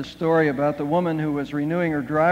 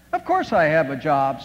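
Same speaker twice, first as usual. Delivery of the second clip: snappy retort; 4 semitones lower than usual. Retold or imitated. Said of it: "snapped Emily".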